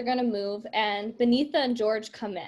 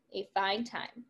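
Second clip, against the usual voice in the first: a fine time said again, softer and trailing off; fading echo; 2 semitones lower, 8 dB quieter, slower than usual. Acted. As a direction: let the repeat drift away, quieter. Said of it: "repeated line in script".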